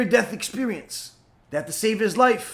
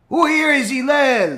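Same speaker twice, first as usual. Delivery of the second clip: loud, higher taunting yell; in-your-face shout; 5 semitones higher, 6 dB louder than usual. Retold or imitated. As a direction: shout right in his face. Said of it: "he says in his face".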